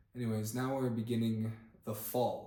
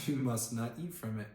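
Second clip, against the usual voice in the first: laughing. Real, not acted. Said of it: "I didn't mean to laugh".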